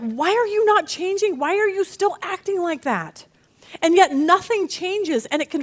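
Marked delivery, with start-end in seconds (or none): 0.0-3.2 exasperated, higher pleading questions; frustrated plea. Retold or imitated. Preacher voicing frustration at someone who won't change, exasperated. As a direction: ask in mock exasperation. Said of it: "I'm just like".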